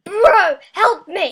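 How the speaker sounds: loud plea for help; calling for help. Real, not acted. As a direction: yell for your friend's help.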